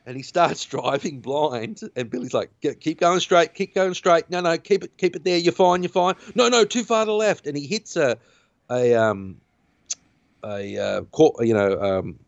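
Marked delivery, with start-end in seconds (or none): 2.6-7.5 higher-pitched urgent directions; retold mild panic; frantic guiding. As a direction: imitate someone nervously steering a blind driver. Retold frantic steering of blind driver.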